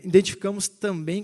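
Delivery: ordinary delivery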